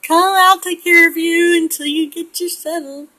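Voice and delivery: playful mock hospitality; sweet hostess voice. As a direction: lure her in kindly. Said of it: "my devious".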